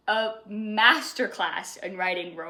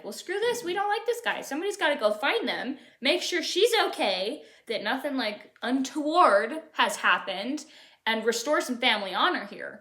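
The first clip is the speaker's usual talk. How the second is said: high, huffy mock outrage; indignant Elizabeth; 4 semitones higher, 4 dB louder than usual. Elizabeth declaring to her family, mock outraged. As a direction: play her fed up and bossy. Elizabeth fumes about Lydia.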